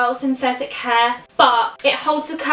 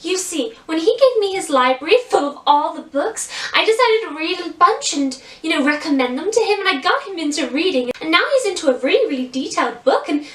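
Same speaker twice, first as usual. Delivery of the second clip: lightly voiced dainty princess, American accent; gentle, girlish American princess voice; sweet, elegant Belle. Shown as a demonstration. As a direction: explain sweetly, like a princess chatting to a child. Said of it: "very, very, very sweet and elegant".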